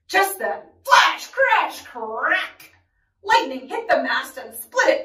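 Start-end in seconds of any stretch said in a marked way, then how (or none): 0.8-2.7 loud, high first bursts, dropping on the last; dramatic sound words. A narrator's reading. Storm breaks over the ship, dramatic bursts. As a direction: punch each word like a thunderclap.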